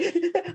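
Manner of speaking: high, quavering laugh-sob demo; wobbly crying voice. Shown as a demonstration. Showing the host how her crying voice wobbled. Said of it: "the voice is like".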